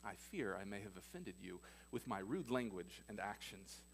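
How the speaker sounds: lightly voiced overly polite parrot; a hint of a prim, formal bird begging pardon. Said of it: "The bird looks at him and says".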